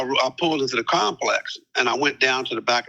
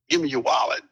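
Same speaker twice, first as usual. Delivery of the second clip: much higher, sharp demand; barked demand; 13 semitones higher than usual. Retold or imitated. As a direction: snap it out like a robber. Gunman demanding wallet.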